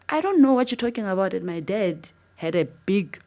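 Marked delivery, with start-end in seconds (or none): 0.1-1.3 bewildered reply. Retold or imitated. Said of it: "I'm like".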